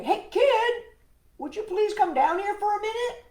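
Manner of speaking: high, pleading call upward. Acted. Mayor calling the hovering kid to come down, high and pleading. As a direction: coax him down from the sky.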